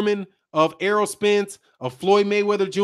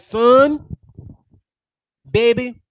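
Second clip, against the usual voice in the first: mock British mum; 4 semitones higher, slower than usual. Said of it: "I can't do a British accent".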